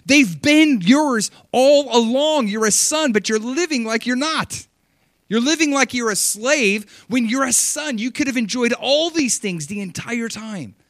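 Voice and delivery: loud, high, slow pleading; pleading father. Acted. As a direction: urge the son to see what he already has. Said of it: "The dad's like".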